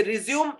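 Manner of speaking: रिज्यूम as "ri-zyoom", two syllables; verb resume. Shown as a demonstration. Teacher showing the wrong word, रिज्यूम as "ri-zyoom". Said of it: "इसका मतलब होता है continue".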